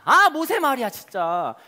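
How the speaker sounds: lightly acted whiny grumble; grumbling complaint. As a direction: grumble at Moses, aggrieved. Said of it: "모세에게 원망하기 시작합니다".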